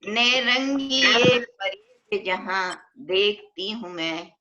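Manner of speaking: measured, drawn-out verse delivery; poetry reading at a mushaira; ghazal recitation. Acted. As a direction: recite it as an Urdu couplet, lingering on the refrain.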